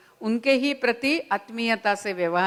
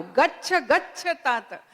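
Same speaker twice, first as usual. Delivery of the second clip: slow blessing; 2 semitones higher, slower than usual. Retold or imitated. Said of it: "वो दो बार "गच्छ गच्छ" कहती है".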